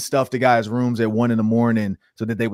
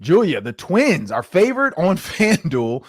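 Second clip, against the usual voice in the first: laughing; 3 semitones higher, slower than usual. Real, not acted. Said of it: "Sorry, I'm laughing".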